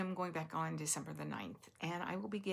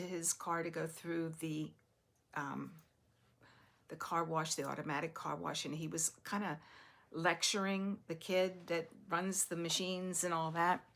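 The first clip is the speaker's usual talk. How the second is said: normal talking voice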